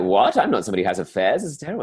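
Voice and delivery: scandalized, starting on a loud "what"; lightly acted outrage; mock shock. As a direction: act out a scandalized protest. Acting out scandalized reaction to affair.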